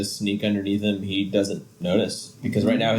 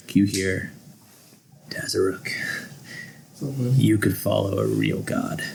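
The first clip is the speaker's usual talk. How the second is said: sinister god voice. Acted. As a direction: whisper temptations like a dark god. Villain god tempting player.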